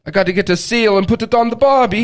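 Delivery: high-pitched mock Australian; over-the-top Australian impression; Australian accent. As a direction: put on a playful Australian accent. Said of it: "the opposite of an Australian accent".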